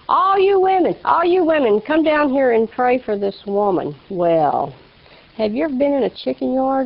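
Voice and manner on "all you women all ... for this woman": calling out to the church. Retold or imitated. Pastor calling the church women down to pray, raised voice. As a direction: summon the women down front.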